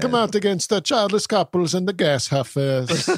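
put-on lightly accented pontiff voice; mock-solemn decree with a foreign accent; Pope Francis. The Pope condemning gas huffers, light foreign accent.

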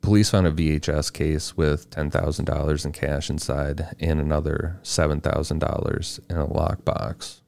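even, measured case read; scripted true-crime narration. A narrator's reading. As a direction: read the case facts out steadily.

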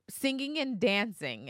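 lightly voiced flustered kid; nervous child. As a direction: mimic a child's nervous, stretched-out answer. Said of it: "she immediately gets nervous".

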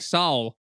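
"Saul" as a teasing copy of Saw with an L; mocked pronunciation. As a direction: say "Saul" with an audible L on the end. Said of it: "You kind of say Saw like".

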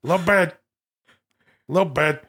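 lightly mannered, squeezed-down catchphrase; Al Pacino doing Robert De Niro. Acted. Pacino quoting De Niro over and over, lightly mannered mimicry. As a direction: slur "little" into a mannered impression. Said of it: "This is Pacino's impression of De Niro".

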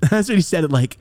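usual speaking voice

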